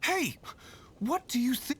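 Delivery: sharp high "Hey!" to stop them; calling out. Acted. Hunter calls out to stop the travellers. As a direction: call out to halt them.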